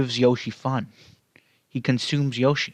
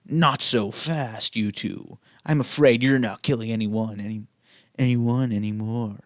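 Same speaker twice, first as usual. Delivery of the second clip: determined tone. Acted. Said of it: "said in a determined tone".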